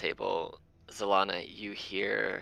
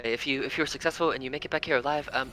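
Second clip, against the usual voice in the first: rabbit voice; 4 semitones higher, faster than usual. Acted. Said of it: "he goes".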